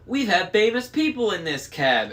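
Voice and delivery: high, loud boasting crone; exclaimed. A narrator's reading. Sister boasting to the kids about the cab. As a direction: brag it out like an excited old hag.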